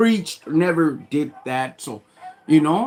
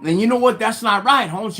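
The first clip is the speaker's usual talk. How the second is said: higher, insistent retold complaint; indignant protest; 4 semitones higher than usual. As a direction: argue your case to the pastor, worked up. Retold quarrel over missing Bible.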